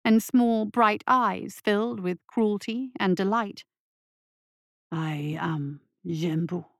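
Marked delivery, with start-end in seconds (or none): 4.9-6.7 deep, slow, looming beast; low menacing creature; monster voice. A narrator's reading. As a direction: speak as an ancient cruel monster. Monster introduces itself.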